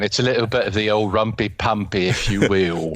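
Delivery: mock Cockney. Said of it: "fall into Dick Van Dyke whenever I do this accent".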